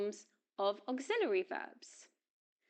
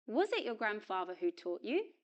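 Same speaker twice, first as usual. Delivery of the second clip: "Was" unstressed, reduced to a schwa; weak form of was. Shown as a demonstration. Teacher models the question for learners, weak "Was". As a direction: pass lightly over "Was" into the question. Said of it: "auxiliary verb is pronounced in weak form".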